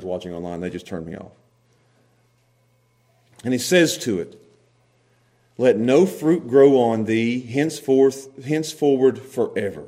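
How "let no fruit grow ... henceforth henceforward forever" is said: restrained, measured command; commanding curse. Acted. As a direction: quietly pronounce a binding curse. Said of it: "He spoke to it with commanding words".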